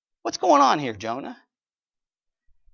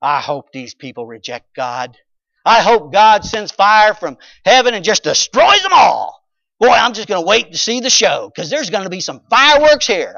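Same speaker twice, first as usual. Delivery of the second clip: gloating hope; 4 semitones higher, 8 dB louder than usual. Retold or imitated. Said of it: "what he's probably sitting there thinking?".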